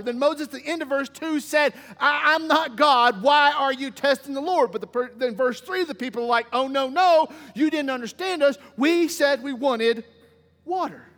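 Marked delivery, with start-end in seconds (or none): 2.0-4.7 exasperated rebuke. Acted. Moses rebukes the quarreling people. 6.5-11.1 insistent protest. Acted. People insist back at Moses.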